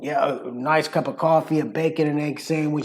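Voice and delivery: chatty New Yorker with rounded "coffee"; lively New York accent. Shown as a demonstration. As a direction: talk like a New Yorker about breakfast. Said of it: "the New York accent".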